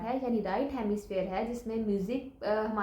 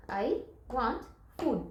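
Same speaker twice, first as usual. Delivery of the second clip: word by word; much slower than usual. Shown as a demonstration. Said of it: "उतने आपने tap करने हैं".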